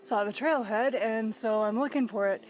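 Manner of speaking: wheezing while climbing; breathy wheeze between words; wheezy voice. Real, not acted. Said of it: "you might notice that I'm wheezing a lot".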